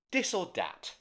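lightly voiced Cockney, dropped th; a poor stab at Cockney; mock Cockney. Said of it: "That was my Cockney".

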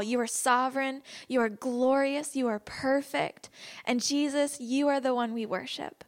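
fervent worship prayer, slowed on the praise; heartfelt spoken prayer, lingering on key words. Acted. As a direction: pour out praise to Jesus before the class. Leads opening prayer.

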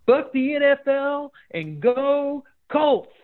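high, slow, drawn-out redneck rant voice; hammed-up redneck ending a fake rant; redneck impression. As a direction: sign off like a fired-up Indiana redneck fan. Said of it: "like, redneck thing".

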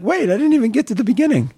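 high, laughing protest at being cut off; host teasing the guest on his behalf, laughing; laughing mock protest. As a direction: laugh through the mock complaint. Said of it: "You're like".

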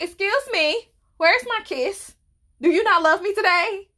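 high, whiny playful demand; mock indignant demand. To mama walking out without kissing her, high pouty demand. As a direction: demand the kiss like a pouting kid.

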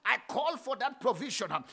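driving, rhythmic Pentecostal prayer; relentless, forceful prayer chant; full-force preaching. Real, not acted. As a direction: punch each phrase with an "uh" at the end. Leads fervent congregational prayer.

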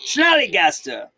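German voice. Acted. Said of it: "So now we know more".

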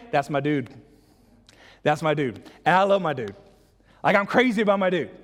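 everyday talk, building in enthusiasm; casual affection. Acted. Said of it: "You know what I would say?".

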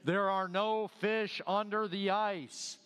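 slow, lightly booming voice from above; a first, measured boom from heaven. Retold or imitated. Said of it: "she heard a voice loud that seemed like it came from heaven".

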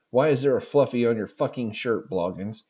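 a hint of a French-Canadian drill sergeant accent; lightly voiced French-Canadian sergeant barking at a recruit. Telling the fluffy story, a light French-Canadian sergeant voice. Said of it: "female French-Canadian sergeant".

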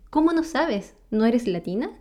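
hint of an astonished coworker; imitating surprise. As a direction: retell her disbelief with a lifted pitch. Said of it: "Y ella, sorprendida".

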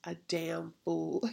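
imagine Jesus musing, softly; voicing Jesus tenderly. Jesus on the cross thinking of her, quietly moved. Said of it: "He was on that cross saying".

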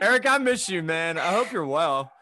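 greeting a friend who will hear the podcast later; shout-out. Real, not acted. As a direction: call out to an absent friend. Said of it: "shout out, Eric".

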